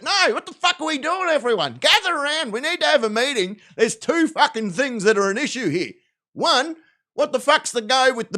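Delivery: rally the crew in mock exasperation; exasperated villain boss. Aussie villain boss calling his crew together, mock exasperated.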